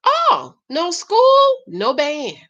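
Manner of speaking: high, drawn-out mock refusal; hammed-up veto, starting high and dropping at the end; dad refusing. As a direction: retell the dad's ruling with a high swoop. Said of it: "And his dad said".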